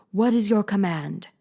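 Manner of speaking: hushed whispered question. A narrator's reading. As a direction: whisper it like a bowing servant. Monkey king voiced.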